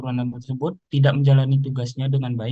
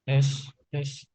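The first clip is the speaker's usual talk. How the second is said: distant faint mic test; far from mic; 5 dB quieter than usual. Real, not acted. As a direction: call out testing from across the room. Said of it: "suaranya, eh, kecil".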